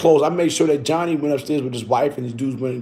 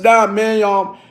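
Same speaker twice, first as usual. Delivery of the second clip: higher, louder fake-casual ask; innocent soap request; 4 semitones higher, 4 dB louder than usual. Asking the men at the door for soap, higher and fake-innocent. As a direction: play it innocent.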